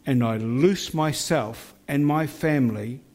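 firm renouncing prayer, slowed phrase ends; fierce commanding prayer. Shown as a demonstration. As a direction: command it with full conviction. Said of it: "let's pray a prayer together".

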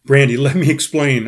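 pleading. Retold or imitated. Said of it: "I pleaded".

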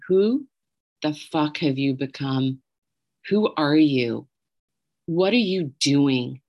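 measured, emphatic retold anger; imitated incensed friend. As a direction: confront her as an outraged friend would. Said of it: "her anger through the phone".

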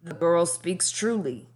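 slow, rasped growl; rasping. Acted. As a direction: rasp it out like a weary soldier. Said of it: "the hound rasped".

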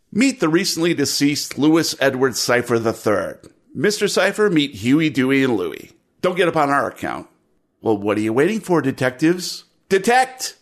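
dry, wisecracking cop boss; sardonic police lieutenant. Acted. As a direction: needle the detectives, deadpan. Lieutenant addresses the detectives.

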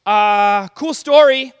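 half-mock bewildered asking; confused listener. Crowd member baffled by the story, questioning Jesus. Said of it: "you're thinking to yourself".

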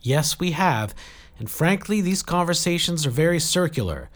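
urgent plea. A narrator's reading. Jill pleading with Saradwan for help, urgent. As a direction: push past the objection and plead for help.

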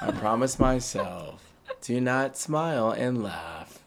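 slow, deliberate falling phrases; slow mock-serious downward inflection. Shown as a demonstration. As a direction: draw it out and drop each phrase. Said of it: "Can you do a downward inflection?".

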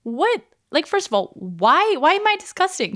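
high, incredulous outrage; indignant disbelief. Retold or imitated. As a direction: question it in shocked disbelief. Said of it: "And I was like".

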